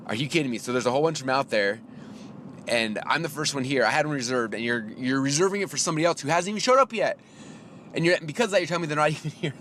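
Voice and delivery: retold indignant rant, pitch climbing; worked-up protest to a clerk; getting angry. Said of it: "I'm starting to get Russell angry".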